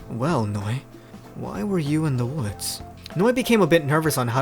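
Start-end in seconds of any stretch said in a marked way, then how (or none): 0.1-2.8 low, slow questioning; deep, measured character voice; deep-voiced Pierce. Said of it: "how deep the guy's voice is".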